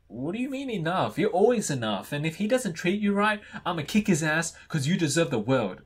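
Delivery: high, lively sass; sassy best friend. Acted. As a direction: indignantly hype up your friend. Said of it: "I can be a sassy best friend".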